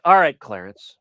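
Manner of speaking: slow, drawn-out exasperated question; a mock fed-up Breyer, dragging it out; exasperated sigh. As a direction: patience wearing thin, spelled out slowly. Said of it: "Breyer sighs".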